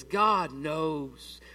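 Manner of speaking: slow, hushed serpent tempting her; tempting devil. Retold or imitated. Serpent tempts Eve in the garden, slow and hushed. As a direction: draw her in slowly like the serpent. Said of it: "the devil says".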